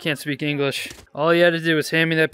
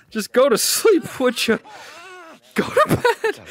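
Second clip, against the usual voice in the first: laughing plea; 12 semitones higher than usual. Real, not acted. Pleading with struggling victim.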